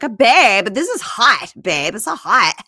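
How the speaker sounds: high, loud, hammed-up "babe, this is hot". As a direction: parody her purring at him during push-ups.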